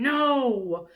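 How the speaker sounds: loud, firm refusal; rumbling no. A narrator's reading. Brontosaurus refusing to be Lulu's pet, loud and firm. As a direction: put your foot down. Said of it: "in his rumbling voice he was saying".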